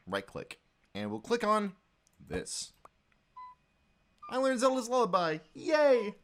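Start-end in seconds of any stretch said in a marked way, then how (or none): 4.3-6.1 high, bright little celebration; mock-proud happy cheer; cheerful cheer. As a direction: announce it gleefully, pitched up. Cheers at learning the song.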